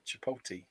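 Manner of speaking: Chipotle said as chi-POH-tee; British mispronunciation. Acted. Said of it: "British person saying it, like".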